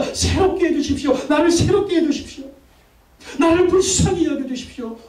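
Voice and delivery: high, pleading prayer cry. Shown as a demonstration. Pastor models crying to Jesus for mercy, high urgent plea. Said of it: "예수님께 소리 질러야 돼요".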